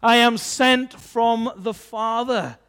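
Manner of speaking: lightly voiced Son, declaring firmly. Son announcing who sent him, loud declaration. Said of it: "You've got a Son who is saying".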